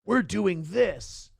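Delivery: slow, drawn-out commanding declaration; mock power move. Mocking ex-wife announcing her power move, slow and commanding. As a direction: lay down the plan like a schemer, slowly. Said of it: "thought she had this great Machiavellian strategy".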